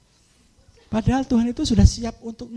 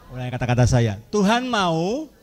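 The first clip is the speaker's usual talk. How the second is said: drawn-out Tuhan mau, lower start; slow it down so they can follow; slow call and response; 3 semitones lower than usual. Real, not acted. Pastor to congregation, slow repeat-after-me.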